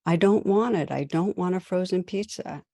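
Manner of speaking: put-on a boy's rising protest that settles; upset son. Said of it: "her son's getting upset".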